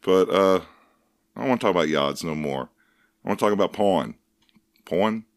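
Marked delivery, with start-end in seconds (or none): 1.4-5.3 put-on quick, slipping New York Jewish accent; a loose New York Jewish accent meant as Boston. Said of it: "I slipped into more of, like, a New York, like, Jewish voice there at the end".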